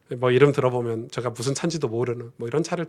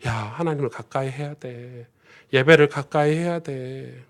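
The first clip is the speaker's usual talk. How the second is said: pleading; slower than usual. Retold or imitated. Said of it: "멀어지면 안타까워가지고".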